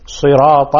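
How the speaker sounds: صراط ending in a full "-ta"; open ta. Shown as a demonstration. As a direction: sound the final a of صراط. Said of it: "فتح الطاء". (صراط بفتح الطاء)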